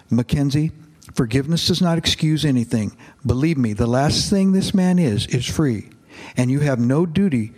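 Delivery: reads the novel aloud to his congregation, steadily; a pastor reading a novel passage to the church, in a narrating voice; story narration. A narrator's reading.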